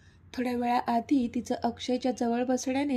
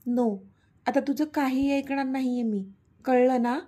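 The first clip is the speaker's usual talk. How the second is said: angry. Acted. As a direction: shut her down, not listening anymore. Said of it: "तो चिडून बोलला".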